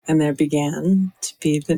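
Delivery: low sultry attempt; lightly attempted sexy voice. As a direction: drop low for a sexy reading. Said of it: "I can maybe try a sexy voice".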